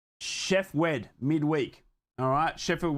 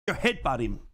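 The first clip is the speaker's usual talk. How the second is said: excited yell; 6 semitones higher than usual. Real, not acted. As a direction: egg on the brawl at the top of your voice. Fan urging a brawl on stream.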